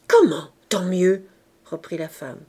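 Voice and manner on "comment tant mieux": loud, slow outraged question; indignant echo. A narrator's reading. Wife throwing husband's words back, indignant echo. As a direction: stretch it out in disbelief.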